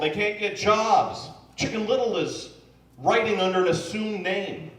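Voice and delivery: normal talking voice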